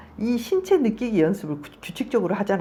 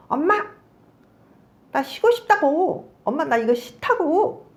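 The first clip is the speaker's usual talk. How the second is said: put-on higher, louder child pleading harder; a child raising her voice to be heard; insistent child; 9 semitones higher, 4 dB louder than usual. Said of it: "조금 더 이제 더 강하게 말하죠". (엄마에게 더 강하게 조르는 아이, 높고 큰 목소리)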